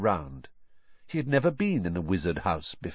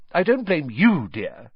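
reassuring; 6 semitones higher, 3 dB louder than usual. A narrator's reading. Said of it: "she assured Harry".

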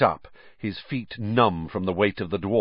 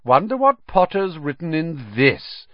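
high, sneering taunt; 8 semitones higher, 3 dB louder than usual. A narrator's reading. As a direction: tease him with the diary. Malfoy taunting Harry.

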